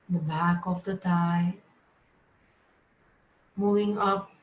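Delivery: measured yoga nidra instructions, short spaced phrases; name each body part, then leave a pause; guided body scan. Real, not acted. Yoga teacher moving students' awareness through the body, guided relaxation. Leads rotation of consciousness.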